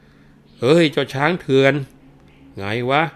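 a constable hollering threats to break the door down; mock officer yelling at the locked house; policeman shouting. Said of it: "ก็ร้องตะโกนบอกว่า".

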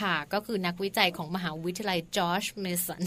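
George Mason said slowly and softly in careful English; slow down and enunciate George Mason like a native; careful English pronunciation. Real, not acted. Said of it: "ออกเสียง ออกเสียงอีกแล้ว". (ออกเสียง George Mason ช้าๆ ชัดๆ แบบภาษาอังกฤษ)

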